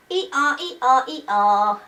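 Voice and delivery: put-on playful hee-haw for a toddler; donkey bray. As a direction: lightly mimic a braying donkey.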